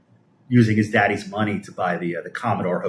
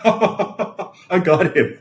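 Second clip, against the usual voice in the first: high, slow laugh through the words; real laughter; 9 semitones higher, 3 dB louder, much slower than usual. Real, not acted. Streamer laughing at trolls' insult, high and slow. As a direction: cracks up at his own joke. Laughing at his own comeback.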